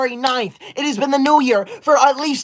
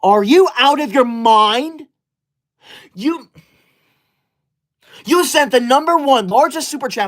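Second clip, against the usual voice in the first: mock outrage; 3 semitones higher than usual. Outraged at a chat message.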